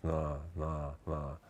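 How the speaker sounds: soft, slack-mouthed mumble of boredom; bored, not enunciating. Shown as a demonstration. Coach showing lazy bored speech, slack and unenunciated. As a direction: let the words go limp, too bored to articulate. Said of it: "I'm not enunciating any words".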